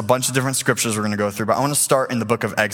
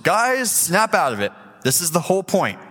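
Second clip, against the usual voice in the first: Moses rallying; 4 semitones higher than usual. Retold or imitated. Moses voiced rallying the people.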